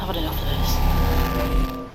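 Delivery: fed up. Acted. Voice gives up loudly.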